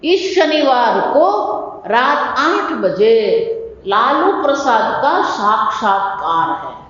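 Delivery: slow, drawn-out Hindi promo read; mock TV announcement. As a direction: read it like a TV channel announcing the show. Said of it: "જો સાંભળજો, આ વાક્ય બહુ મજાનું". (ધીમી TV જાહેરાત જેવી નકલ)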